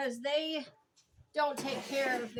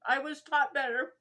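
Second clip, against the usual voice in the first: louder, laughing apology; 3 semitones higher, 5 dB louder than usual. Real, not acted. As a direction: laugh at yourself, embarrassed. Laughs at own manners.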